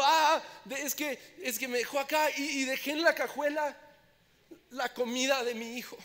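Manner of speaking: anxious pleading. Retold or imitated. Pleading to operator about son.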